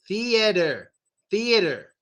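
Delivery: "Theater" said as "thee-eh-der"; D-R ending. Shown as a demonstration. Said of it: "And it's a D R".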